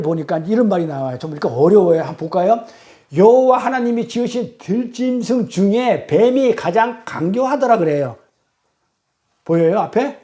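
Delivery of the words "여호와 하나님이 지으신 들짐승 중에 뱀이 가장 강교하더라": slow, measured verse reading; scripture reading. Acted. Preacher reads Genesis to the congregation, measured scripture reading. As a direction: read the verse out deliberately.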